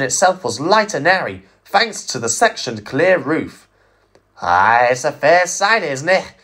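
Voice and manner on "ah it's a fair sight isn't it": musing. Acted. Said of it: "mused Douglas".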